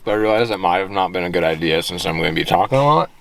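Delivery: talking while chewing gum; words round a piece of gum. Real, not acted. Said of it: "I put a piece of gum in my mouth".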